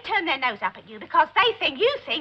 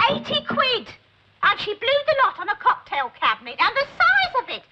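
excited gossip; 7 semitones higher than usual. Acted. Gossiping about neighbour's splurge.

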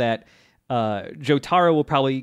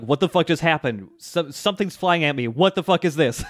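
mildly panicked mock quote, a bit higher; retold freak-out; 4 semitones higher than usual. Host voicing Indul as something flies at him, mock freak-out. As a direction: act out a startled freak-out, half in earnest. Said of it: "immediately freaking out".

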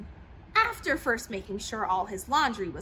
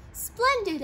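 mild English crowd cheer; 9 semitones higher than usual. A narrator's reading. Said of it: "people yelled".

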